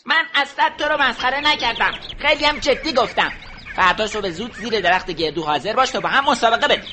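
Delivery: little hedgehog standing firm; determined. Acted. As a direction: resolute challenge. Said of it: "خیلی مصمم و محکم ... با اراده گفت".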